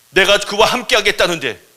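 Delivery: high, loud indignation; angry. Acted. God losing his temper over Moses, loud and angry. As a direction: fume at being disobeyed. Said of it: "하나님이 화를 내는 거예요".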